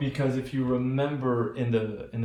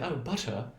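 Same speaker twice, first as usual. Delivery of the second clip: put-on British accent; 5 dB quieter than usual. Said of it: "very proper British native speaker is gonna say".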